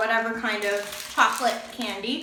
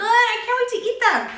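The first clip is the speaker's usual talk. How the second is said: high and loud, eager; bursting with excitement; excited; 10 semitones higher, 6 dB louder than usual. Real, not acted. Excited about treats.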